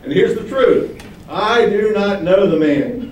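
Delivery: loud, high, desperate swearing; Peter's panicked denial, loud and high; Peter's frantic oath. Retold or imitated. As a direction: swear it like a cornered man shouting. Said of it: "He says".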